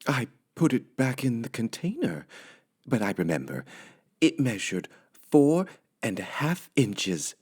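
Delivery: high housemaid musing to herself; high, sweet Amelia Bedelia voice. Acted. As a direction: play the cheerful literal maid. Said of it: "said Amelia Bedelia".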